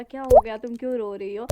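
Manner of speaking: uncle's call. Retold or imitated. Uncle asks why she cries.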